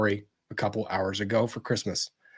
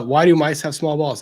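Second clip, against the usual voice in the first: louder, higher, savouring the punchline setup; repeating the joke with relish; 6 semitones higher, 7 dB louder than usual. Shown as a demonstration. Reading a viewer's cheeky joke, delighted. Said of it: "coming in with the fire".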